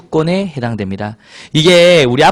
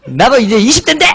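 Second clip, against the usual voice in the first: higher, whiny protest, acted; annoyed daughter; 6 semitones higher than usual. Daughter in her twenties protesting to parents, irritated whine. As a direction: protest like a pestered grown-up kid. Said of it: "엄마한테 막 짜증 나는 거야".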